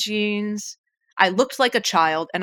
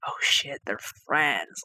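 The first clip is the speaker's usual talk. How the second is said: dismayed realization; 4 semitones lower, 5 dB quieter, slower than usual. Retold or imitated. Realizing in thought.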